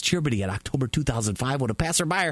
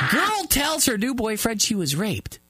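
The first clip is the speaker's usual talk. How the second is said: reading the headline again while cracking up; laughing retake of the headline; 7 semitones higher than usual. Real, not acted. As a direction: giggle through the line.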